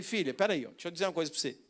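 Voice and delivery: put-on calm a crying child tenderly; father soothing his daughter at the rat's grave, softly; gentle fatherly comfort. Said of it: "Eu falei".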